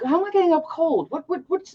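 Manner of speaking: high, quick puzzled self-quote; mock puzzled. I'm like.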